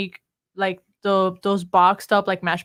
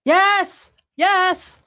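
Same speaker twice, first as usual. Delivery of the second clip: high, loud eager cheer; excited yes; 9 semitones higher, 3 dB louder than usual. Real, not acted. Friend cheering the home ec class idea, excited. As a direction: jump on the idea with delight.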